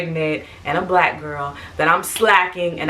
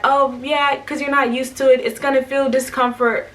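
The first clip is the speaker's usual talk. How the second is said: higher-pitched, airy brush-off; imitated dismissive nurse; 6 semitones higher than usual. Nurse to patient with painful IV, imitated brush-off. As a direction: mimic a nurse waving away a complaint.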